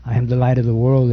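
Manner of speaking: "I am the light of the world" rattled off fast; quick repeat of the title; quick restatement. Shown as a demonstration. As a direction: repeat the title briskly, in passing. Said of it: "the title of my sermon is".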